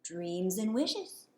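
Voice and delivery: very slow, knowing wizard singsong; sly, with a wink. Acted. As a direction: tease it out slowly, playfully. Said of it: "the wizard said with a wink".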